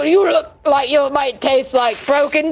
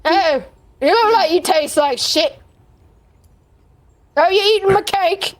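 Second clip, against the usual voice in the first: giant's demanding bellow; 5 semitones higher than usual. Acted. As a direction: roar it out like a greedy giant. Giant taunts the goblin.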